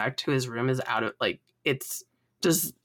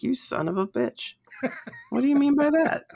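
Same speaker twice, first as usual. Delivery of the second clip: glare and demand it in mock outrage; captain glaring at his android officer, hammed-up; Picard's stink eye; 12 semitones higher than usual. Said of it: "gives him the stink eye".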